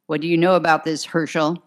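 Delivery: fast, insistent question; lieutenant pressing about the witness, brisk demand; quick demand. Acted. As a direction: fire the question off impatiently. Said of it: "McGivney demanded".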